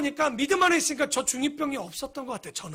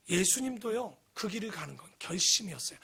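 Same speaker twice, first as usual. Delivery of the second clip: 예수님도요 said low and softer, almost to yourself; quiet lead-in; 5 semitones lower, 8 dB quieter than usual. Acted. Pastor quietly introduces Jesus's resolve, softly. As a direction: ease into 예수님도요 gently. Sermon point, first mention.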